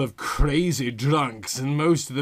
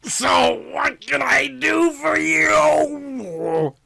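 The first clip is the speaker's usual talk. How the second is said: detective asking; 13 semitones higher, 4 dB louder, much slower than usual. Acted. The speaker's line, stretched loud.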